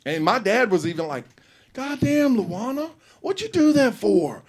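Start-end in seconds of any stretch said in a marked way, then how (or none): 1.7-4.4 high, startled exclamation; shocked dad. Retold or imitated. Dad shocked at Luana kicking the kid, high and loud. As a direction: cry out at what she did.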